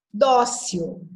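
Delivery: dócil with a strong first syllable; penultimate stress. Shown as a demonstration. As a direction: punch the dó of dócil. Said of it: "penúltima sílaba". (dócil com o dó bem forte)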